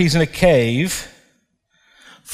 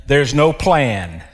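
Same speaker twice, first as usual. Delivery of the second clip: despairing Elijah; 3 semitones lower than usual. Acted.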